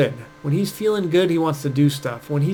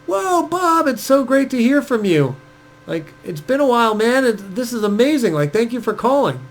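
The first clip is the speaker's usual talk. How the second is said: much higher and louder, gushing with delight; enthusiastic greeting; 7 semitones higher, 3 dB louder than usual. Shown as a demonstration. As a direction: greet a friend like it made your whole day. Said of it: "the way we have to answer is like".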